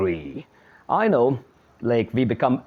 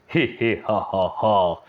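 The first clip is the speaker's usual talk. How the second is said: laughing; 4 semitones lower than usual. Shown as a demonstration. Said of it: "very happy".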